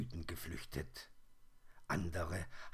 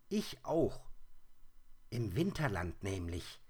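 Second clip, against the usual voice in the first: hoher, lauter, grantiger Igel; übellauniger Igel; 2 semitones higher than usual. Acted. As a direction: schimpf wie ein aus dem Winterschlaf gerissener Igel. Igel spricht. (der geweckte Igel schimpft hoch und laut)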